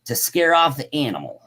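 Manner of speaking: projected, deliberate account reading; story read-aloud. A narrator's reading. Host reading about tracks and yells, story read-aloud.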